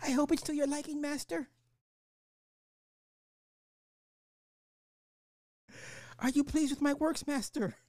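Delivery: very high, fast servile robot voice; sexy robot voice. Pretend. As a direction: purr like an eager robot servant. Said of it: "the sexy robot voice".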